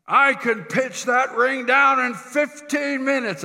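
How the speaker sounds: put-on booming, drawn-out German accent; German-accented farmer. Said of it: "he's got this German accent".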